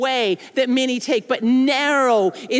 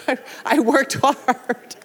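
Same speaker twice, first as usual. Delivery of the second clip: laughing while quoting. Retold or imitated. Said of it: "He said".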